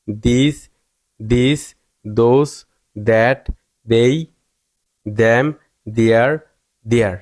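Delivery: "this, those, that, they" begun with দ, rising list tune. Shown as a demonstration. Teacher proving the rule, th as d in "This, those, them, their". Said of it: "সবগুলোতে দয়ের মতো উচ্চারিত হয়েছে".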